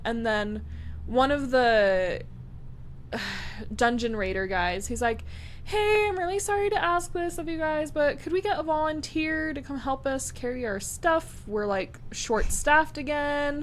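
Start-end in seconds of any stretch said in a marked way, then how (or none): 5.6-13.6 customer service voice. Retold or imitated. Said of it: "Polite customer service voice?".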